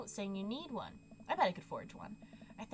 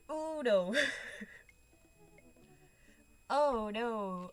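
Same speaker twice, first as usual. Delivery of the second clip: panicked oh no; 7 dB louder, much slower than usual. Real, not acted. Panicked reaction.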